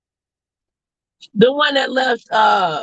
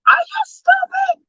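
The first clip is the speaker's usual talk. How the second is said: incredulous; slower than usual. Acted. Scolding the streamer in disbelief.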